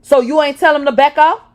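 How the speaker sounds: loud, high angry scream. Acted. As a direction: scream the accusation. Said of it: "So he screamed at me".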